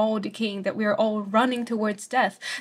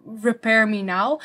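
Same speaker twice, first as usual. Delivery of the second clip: slow, louder, "repair" lifted; urgent imperative; 4 dB louder, slower than usual. Shown as a demonstration. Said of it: "the imperative of repair".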